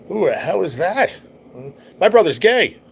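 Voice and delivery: high, emphatic amazed outburst; stunned disbelief. Retold or imitated. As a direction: blurt it out, incredulous. Stunned reaction to woman he saw.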